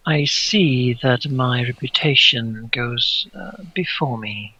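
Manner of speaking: the prince answers softly, like an eighteenth-century noble. Acted. The prince greets the visitors in a soft, noble voice. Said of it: "It's a very soft voice and seems to speak in a noble manner".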